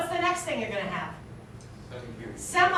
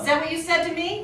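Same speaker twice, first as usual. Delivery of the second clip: incredulous question; 6 semitones higher than usual. Shown as a demonstration. Teacher acting out questioning energy for the class. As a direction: challenge them, disbelieving. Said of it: "That's called question mark energy".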